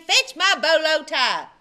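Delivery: loud bossy command; shouted order. A narrator's reading. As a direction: bark it across the house. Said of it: "shouted Dwayne".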